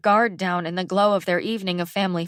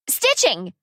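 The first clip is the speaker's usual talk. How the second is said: mild yell; 4 semitones higher, 3 dB louder than usual. Acted. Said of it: "yelled Farah".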